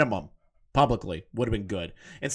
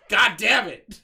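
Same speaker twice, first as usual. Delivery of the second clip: frustrated outburst; 8 semitones higher, 5 dB louder, slower than usual. Real, not acted. Internet cut out by popcorn.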